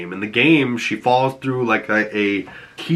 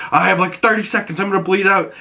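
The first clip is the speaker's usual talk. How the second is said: high, rushed mock panic; panicked Mel; 8 semitones higher, faster than usual. Mel panicking as she bleeds out, high mock panic. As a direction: imitate a dying woman panicking. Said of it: "Mel starts to freak out".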